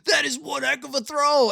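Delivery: imitating a big-game announcer; announcer call. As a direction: call it like a TV play-by-play man. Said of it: "how a Joe Buck handles the final call".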